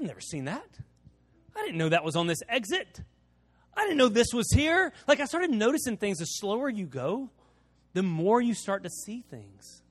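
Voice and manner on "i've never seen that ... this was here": rising amazement, last line much higher and louder; surprised. Retold or imitated. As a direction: discover something new with wonder. Retold surprise at signs.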